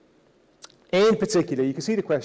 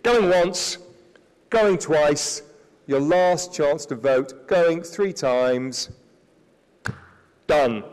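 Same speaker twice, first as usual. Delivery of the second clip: slow the last calls like a gavel is coming; auctioneer call; much slower than usual. Pretend. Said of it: "I'm not gonna be an auctioneer".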